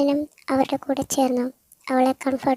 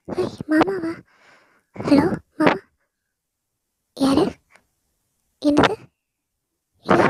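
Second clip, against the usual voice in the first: higher, stunned voice refusing bad news; shocked disbelief; 5 semitones higher than usual. Veda on the phone hearing her uncle died, disbelieving. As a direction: deny it, voice climbing in shock.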